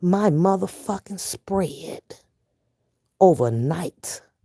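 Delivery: spoken slowly and deliberately. A man holds himself up as an example, saying it slowly. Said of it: "I'm going to say this slow".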